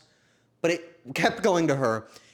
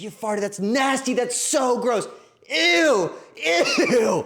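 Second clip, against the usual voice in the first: very high, loud, grossed-out, disgusted scream; 10 semitones higher, 5 dB louder than usual. Retelling a woman in an Uber accusing the speaker; imitating someone yelling in disgust. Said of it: "She yells".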